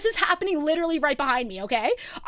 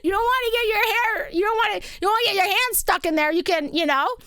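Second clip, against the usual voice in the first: higher, hesitant imitation of polite deflecting; super nice warning; 3 semitones higher than usual. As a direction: tiptoe nicely around saying no. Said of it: "Jess is, like, super nice".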